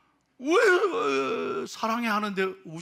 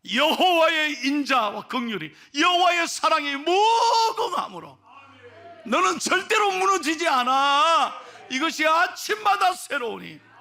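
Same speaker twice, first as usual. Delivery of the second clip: voice of God comforting; 6 semitones higher, 5 dB louder than usual. Acted. God's comforting words voiced.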